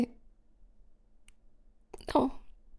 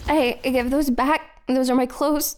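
startled protest; 5 dB louder than usual. Acted. Clothes taken away.

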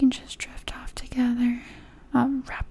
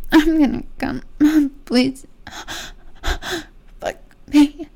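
desperate pleading; 2 semitones higher, 4 dB louder than usual. Acted. Climax, begging building up.

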